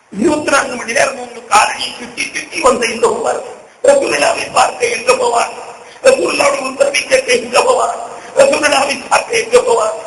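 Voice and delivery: climbing sermon lament for the lost Prophet; weeping lament. Retold or imitated. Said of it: "என்று நான் அழுகிறார்".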